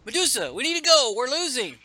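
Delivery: high, hurried battle warning; mock-urgent comic-book character; urgent acted plea. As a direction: call out urgently, pitched well up.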